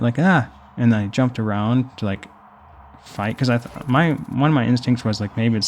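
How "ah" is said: short mock startled yelp; quick retold "ah" of fright; little scream. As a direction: imitate a small scream, higher and louder. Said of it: "I screamed a little bit".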